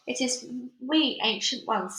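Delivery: meek voice. Acted. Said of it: "said a meek voice".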